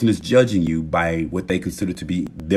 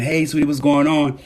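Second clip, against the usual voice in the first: higher, easygoing hello to a sweetheart; cheerful greeting; 6 semitones higher than usual. Acted. Walking in to a partner, cheerful greeting. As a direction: greet your partner lightly, pitched up. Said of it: "instead of you saying".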